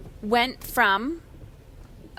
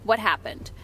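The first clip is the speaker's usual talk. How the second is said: calmly level question. Shown as a demonstration. Mom demonstrates asking what happened upstairs, calm voice. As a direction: show how to ask without reacting. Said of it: "in a very calm voice".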